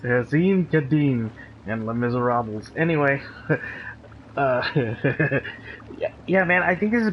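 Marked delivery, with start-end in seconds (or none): 0.0-2.7 Azim Kadim said lower, mock-botched; Travolta name mangling. To friend, joking Travolta's garbled names, lower mock voice. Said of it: "John Travolta says".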